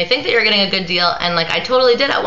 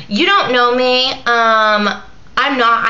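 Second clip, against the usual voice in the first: mock freaking out; 5 semitones higher, slower than usual. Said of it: "She started freaking out".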